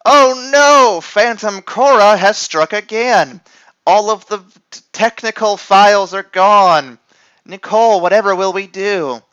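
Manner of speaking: high, loud cartoon alarm; hammed-up panic.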